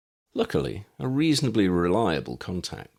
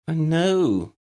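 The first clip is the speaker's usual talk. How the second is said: grimacing; 10 semitones higher, 5 dB louder than usual. A narrator's reading. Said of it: "Ginny grimaced".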